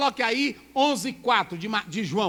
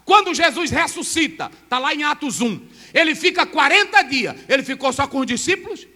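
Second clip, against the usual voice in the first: forceful pulpit preaching, raised and louder; 4 semitones higher, 8 dB louder than usual. Acted. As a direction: preach it out to the congregation.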